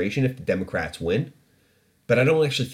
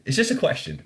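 much higher mock-innocent "It's just a question.". Shown as a demonstration. Host repeating his question to listeners, mock innocent and high. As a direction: lift the whole of "It's just a question." up high, faux naive. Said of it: "repeated with higher pitch".

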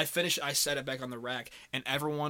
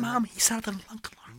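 put-on high whiny tattling child; tattling kid voice; 7 semitones higher, 3 dB louder than usual. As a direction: tell on him to mom.

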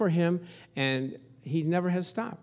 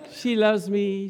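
lightly voiced hopeful "She loves me", pitched up; hopeful lover; 3 semitones higher, 3 dB louder, slower than usual. Lovestruck guy picking petals, hopeful rise. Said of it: "See, the guy's excited".

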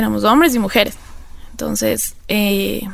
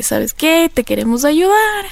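lightly imitated helpers, pitched higher; retold offer of help; 4 semitones higher, slower than usual. Clinic people telling her they want to help, lightly imitated. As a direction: put on a higher voice for a quoted offer.

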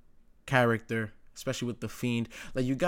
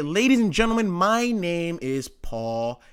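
loud, higher announcer opening, then slowed on the name; Paul Heyman impression; 4 semitones higher, 4 dB louder than usual. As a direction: mimic a wrestling manager's grand intro. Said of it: "as soon as you hear him".

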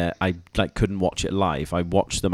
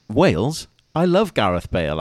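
higher and louder, delighted; excited policeman; 5 semitones higher, 6 dB louder than usual. Retold or imitated. Policeman hearing Wales, mock excited and loud. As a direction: burst out with a fan's glee. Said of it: "the policeman went".

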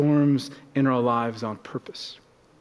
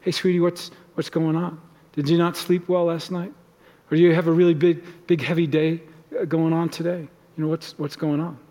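caring check-in. Retold or imitated. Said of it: "you turn towards".

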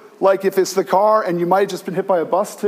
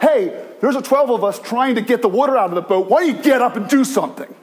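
rude demand; 5 semitones higher than usual. Retold or imitated. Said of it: "It's that rude".

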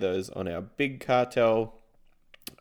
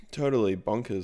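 burping. Real, not acted. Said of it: "Sorry for just burping into this".

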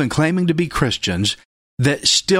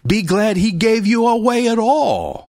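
preaching shout; 8 semitones higher than usual. Real, not acted. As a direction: shout it back at the whiner. Preacher retorts to complainers.

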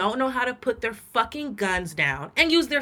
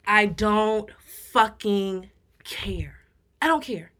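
under the breath, slow and hushed; whispered aside; slower than usual. Real, not acted. Muttered aside to co-host, hushed. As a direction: drop to a whisper for the swear.

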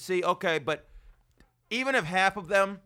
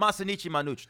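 fake Italian; faster than usual. Shown as a demonstration. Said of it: "that fake Italian phase I created".

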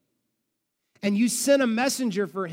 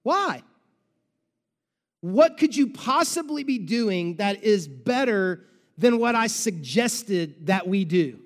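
anguished question to God; 4 dB louder, slower than usual. Acted. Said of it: "we will wanna know".

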